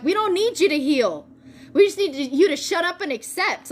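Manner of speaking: mock exasperated telling-off; impatient guides. Voicing guides' impatient reply.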